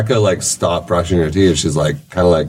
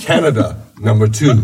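boastful Korean driver. Retold or imitated. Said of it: "He's like".

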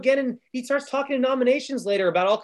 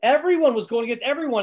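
ordinary talk

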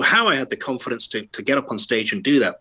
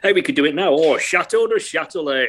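put-on lightly posh, higher old gent reminiscing; a hint of a smug Yorkshire toff, raised in pitch; Four Yorkshiremen sketch voice; 4 semitones higher than usual. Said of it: "You don't have to come up with the next line".

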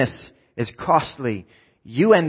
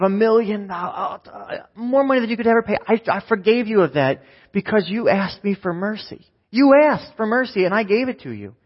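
stern king; 6 semitones higher than usual. Retold or imitated. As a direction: scold the servant, pitched up and deliberate. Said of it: "He said".

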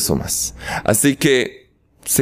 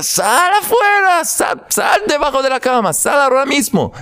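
much higher shouted order; wife ordering husband from under the bed, shouting; 12 semitones higher than usual. Acted. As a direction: yell at him to come out now. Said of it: "Y ella le grita".

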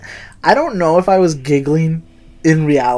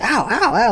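mock pained yelps; 7 semitones higher, 3 dB quieter than usual. Imitating friend pecked by geese.

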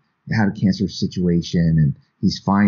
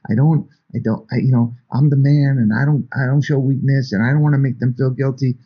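put-on old-school dad; 6 semitones higher than usual. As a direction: defend his pride, a bit defensive. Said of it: "the dad was like".

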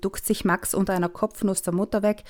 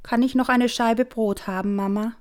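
angelic request; 3 semitones higher than usual. Acted. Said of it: "sein Engelslächeln auf".

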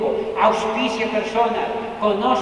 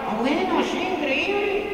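high, lightly voiced eager friend; excited friend's reply; 8 semitones higher than usual. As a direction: mimic the friend's giddy yes. Freund antwortet begeistert.

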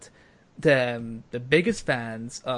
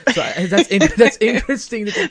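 laughing through words; 7 semitones higher, 10 dB louder than usual. Real, not acted. Laughing at own joke.

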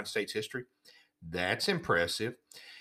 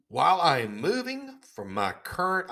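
Fauci voice; 5 semitones higher than usual. Pretend. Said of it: "I can't talk like you anymore".

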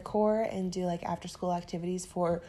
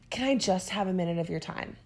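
timid, hedging ask. Retold or imitated. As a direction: shrink yourself as you ask. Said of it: "talking about kneecapping sentences".

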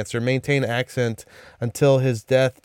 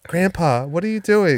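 worried grandchild; 5 semitones higher than usual. Acted. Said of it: "And then, like".

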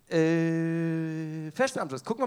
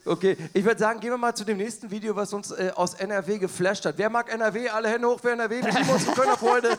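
hype announcer; 3 semitones higher, 6 dB louder than usual. Acted. Hype announcing NRW video.

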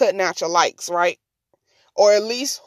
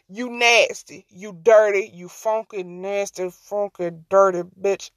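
aggressive insult rant. Real, not acted. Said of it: "That was aggressive".

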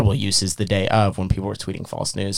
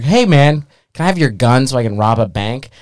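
higher, louder mock request to the cops; sarcastic joker; 4 semitones higher, 4 dB louder than usual. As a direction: toss it out as a cheeky joke. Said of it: "like, sarcastically was like".

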